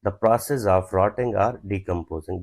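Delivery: slow, word by word dictation. Shown as a demonstration. Teacher dictating an example sentence slowly to students. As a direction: spell each word out slowly for the class. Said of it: "decay का क्या मतलब".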